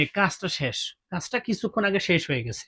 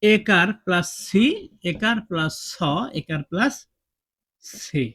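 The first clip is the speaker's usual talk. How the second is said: slow spelled-out dictation; slower than usual. Shown as a demonstration. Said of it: "এর বাংলা উচ্চারণটা কেমন হবে?".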